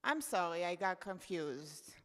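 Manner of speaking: usual speaking voice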